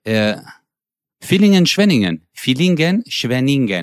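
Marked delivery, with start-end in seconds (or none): 1.2-3.8 Villingen and Schwenningen with a clear ŋɡ and sung tune; sing-song Turkish-German town names; how Turks say town names; Turkish place-name pronunciation. Retold or imitated. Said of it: "Die sagen immer".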